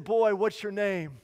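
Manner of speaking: slow and deliberate; stern slow preacher. Retold or imitated. Preacher looming over the boy, slow and stern. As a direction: loom over a scared boy.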